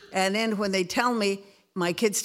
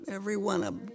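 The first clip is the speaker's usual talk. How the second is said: every one of 'em repeated, quieter; softer echo; 5 dB quieter, faster than usual. Real, not acted. Grandmother echoing her prayer for her family, softly. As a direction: let the repeat fall away softly. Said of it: "That's my prayer".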